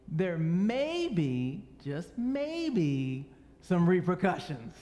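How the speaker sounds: slow, drawn-out parent's threat; a hint of a stern father warning kids; mock stern warning. Shown as a demonstration. Father warning his running children, mock stern. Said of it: "say it with a little more authority".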